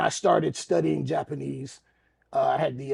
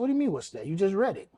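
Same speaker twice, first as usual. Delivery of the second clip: higher-pitched retold disbelief; baffled protest; 5 semitones higher, faster than usual. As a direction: question it back in mock bafflement. Baffled reply to referee.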